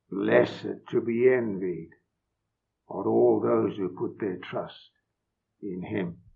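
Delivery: solemn, measured reading of the psalm; scripture reading. Acted. Preacher reading Psalm two to the congregation, solemn and measured. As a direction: read the Lord's words with weight and awe.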